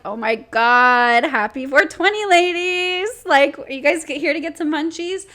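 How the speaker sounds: overeager waitress greeting; mock waitress. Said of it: "she was like".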